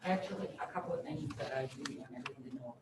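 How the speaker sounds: muffled behind a mask; talking through a mask; through a face mask. Real, not acted. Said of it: "I hope you can hear me through this mask".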